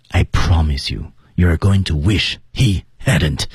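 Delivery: slow warning landing on "wish he hadn't"; level build, forceful ending. Shown as a demonstration. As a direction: hold back on "promise", separate "wish", "he", "hadn't". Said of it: "才能显示出后面的力量".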